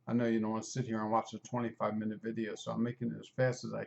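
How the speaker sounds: rapid, matter-of-fact aside; talking fast. Real, not acted. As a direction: rush through it to save the listener time. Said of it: "I'm just talking fast".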